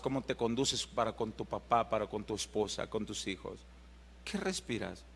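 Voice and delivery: fading to a soft hush; intimate hush. Acted. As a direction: lean in and ask it gently.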